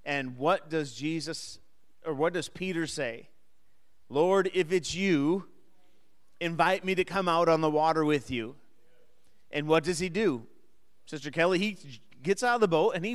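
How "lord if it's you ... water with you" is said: raised voice, retold plea; calling out. Voices Peter calling to Jesus.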